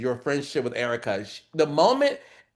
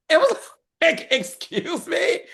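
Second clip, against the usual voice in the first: shocked; 3 dB louder than usual. Retold or imitated. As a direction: gasp it out, scandalized. Shocked retort, laughing.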